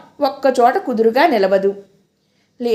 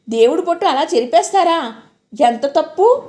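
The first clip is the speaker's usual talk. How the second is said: mild scolding; 4 semitones higher than usual. Acted. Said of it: "అంటూ నన్ను కేకలేసింది".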